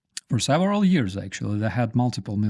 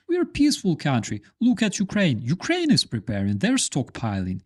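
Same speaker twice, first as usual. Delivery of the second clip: mock Russian officials; 3 semitones higher, faster than usual. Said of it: "We are not going to invade".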